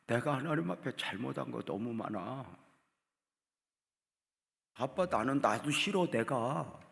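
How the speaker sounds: retold tearful daughter. Daughter phoning her father at night, retold tearful plea. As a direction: imitate a crying child, building in distress. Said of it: "울다가 이래".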